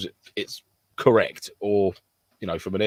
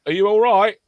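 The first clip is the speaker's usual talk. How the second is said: mock concern; 12 semitones higher, 6 dB louder than usual. Mock-concerned call to injured teammate.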